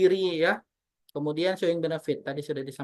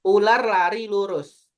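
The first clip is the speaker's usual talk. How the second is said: slow clear dictation; 5 dB louder, slower than usual. Shown as a demonstration. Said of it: "Ap-, apa tadi?".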